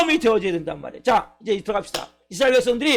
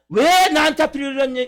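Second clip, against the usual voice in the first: mock resentful complaint; 3 semitones higher than usual. Believer blaming God for misfortune, resentful. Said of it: "하나님 내가 원망하고".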